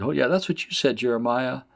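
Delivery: high-pitched sneering aside; mocking. Mockers needling Jeremiah over his prophecy, mocking. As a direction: taunt the prophet with his own message. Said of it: "they're mocking him, saying".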